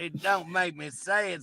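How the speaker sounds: laughing through the refusal; half-laughing plea; laughing protest. Real, not acted. To Bob, laughing while refusing to say it.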